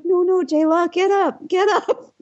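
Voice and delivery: high, urgent pleading; mock dismay, urging a friend up; imitated alarm. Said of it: "Teresa said when she saw it".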